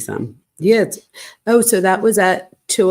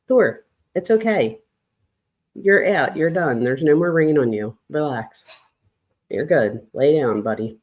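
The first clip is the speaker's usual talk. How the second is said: gentle reassurance to a nervous dog, trailing softer; calm him down after the rain; settling a rain-soaked dog, softly; soothing the dog; 2 semitones lower, 3 dB quieter than usual. Real, not acted. Soothing her anxious wet dog.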